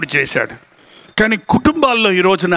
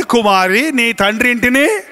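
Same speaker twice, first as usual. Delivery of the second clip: scripture quote; 3 semitones higher than usual. Retold or imitated. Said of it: "భార్యకు చెప్పబడింది".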